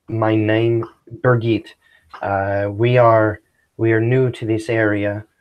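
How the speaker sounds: put-on halting Swedish accent, broken English. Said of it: "broken, uh, Swedish accent".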